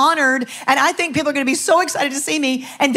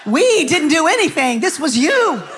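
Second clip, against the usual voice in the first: retold mad protest; slower than usual. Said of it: "I was so mad".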